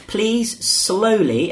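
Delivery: slow, drawn-out gloss; slow demo. Shown as a demonstration. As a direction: say it very slowly to model it. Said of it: "Man, manda is slowly".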